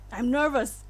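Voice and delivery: lightly attempted British accent. Streamer auditioning a voice for the main character, British accent. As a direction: try the line in a British accent. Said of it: "British voice".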